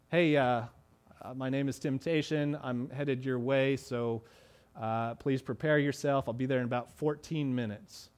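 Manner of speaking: low, soft mock-polite voice for Temptation; personified temptation. Preacher voicing Temptation as a polite caller, low and soft. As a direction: play Temptation calmly calling ahead.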